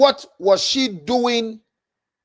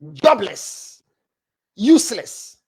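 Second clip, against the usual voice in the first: 1 mocking repeat; 2 semitones lower, slower than usual. Mocking the insult word by word.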